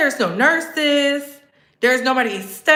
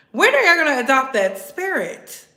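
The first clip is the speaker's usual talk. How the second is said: ordinary delivery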